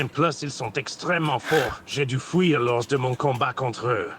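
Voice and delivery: lightly put-on Goku Black voice; villain roleplay voice. Voice chat roleplayer playing Goku Black, lightly voiced villain. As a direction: grandiose villain speech, held steady. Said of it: "un truc dans la gorge".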